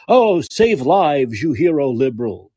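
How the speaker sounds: drawn-out sarcastic admiration; exaggerated, scornful hero worship; mocking praise.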